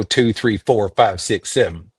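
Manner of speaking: Texan, spoken through the mouth; Texas accent. Shown as a demonstration. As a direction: count in non-nasal Texas accent. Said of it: "They speak entirely through their mouth".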